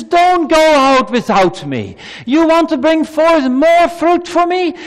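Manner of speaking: voice of Jesus. Acted. Preacher voices Jesus pleading.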